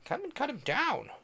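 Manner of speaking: shouted order. A narrator's reading. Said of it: "I shouted".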